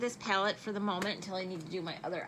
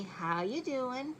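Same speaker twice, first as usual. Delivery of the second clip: slow, stretched flirty How you doing; drawn-out Joey-style greeting; 4 semitones higher, slower than usual. Shown as a demonstration. Greeting her viewers with a slow, flirty how you doing. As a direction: lay on the charm, nice and slow. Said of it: "I guess I can say".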